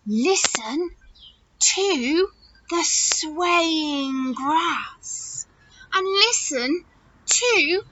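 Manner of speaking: slow, lilting storybook cricket; gentle hint of a cricket character; lightly voiced wise cricket. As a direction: draw out the words, inviting the listener in. Reads the wise cricket's speech.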